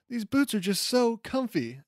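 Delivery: tossing off the line like a pleased cartoon character; Plastic Man quote. Host quoting Plastic Man's funny line to listeners, lightly voiced. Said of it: "Plastic Man is still wearing Wonder Woman's outfit and says".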